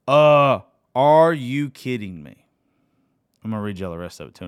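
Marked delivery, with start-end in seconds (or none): 0.1-2.5 overwhelmed disbelief. Real, not acted. Overwhelmed reaction to lyrics.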